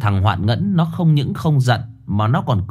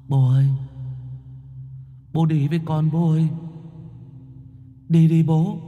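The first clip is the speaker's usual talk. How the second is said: eerie, higher coaxing call; ghostly son beckoning; 5 semitones higher, 4 dB quieter than usual. A narrator's reading. Ghost son coaxing his father to come along, eerie. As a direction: lure him gently from the dark.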